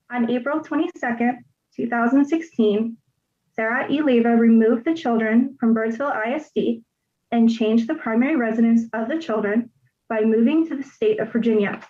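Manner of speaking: measured, with pauses between phrases; slowed-down reading. Real, not acted. Litigant rereading for the person taking it down, slowed and paused. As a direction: reread it in separated chunks for the record. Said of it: "Wait, slow down".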